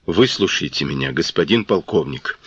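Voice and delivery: trembling, low, pleading voice; terrified pleading hostage. Acted. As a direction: beg him in a shaking voice. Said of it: "дрожащим голосом попросил Балагов".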